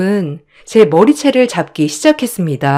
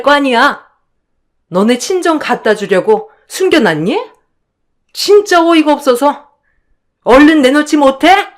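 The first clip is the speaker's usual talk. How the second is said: sneering, higher and sharp, looking down on her; scornful accusation; 6 semitones higher than usual. Acted. Sister-in-law sneering at the narrator as a thief. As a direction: spit out the insult with contempt.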